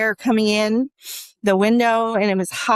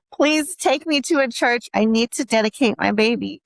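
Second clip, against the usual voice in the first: emotional plea; 3 semitones higher than usual. Retold or imitated. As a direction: beg again as tears come up. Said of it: "I'm getting so emotional right now".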